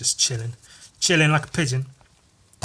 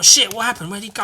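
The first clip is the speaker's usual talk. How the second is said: mock bewilderment; 7 semitones higher, 6 dB louder than usual. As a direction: play someone who lost sight of their quarry. Baffled character, acted.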